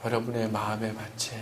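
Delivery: earnest sermon voice swelling and falling; sermon preaching. Acted. Pastor preaching Psalm 23 to the congregation, earnest sermon delivery.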